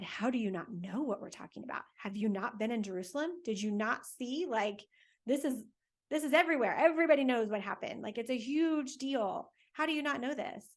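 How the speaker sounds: how can you not know, building indignation; exasperated disbelief. Acted. Disciple scolding the clueless stranger, incredulous and exasperated.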